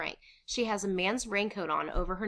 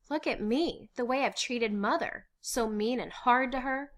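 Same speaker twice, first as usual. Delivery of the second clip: higher-pitched, distressed confession; remorseful; 6 semitones higher, 4 dB louder than usual. Acted. Anne confessing how she treated Mother, remorseful. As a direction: blame yourself earnestly.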